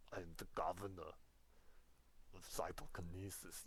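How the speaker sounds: lightly voiced action-hero governor; Arnold Schwarzenegger. Teacher hams up Arnold for her students, lightly accented. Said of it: "I'm trying to do an Arnold Schwarzenegger impression".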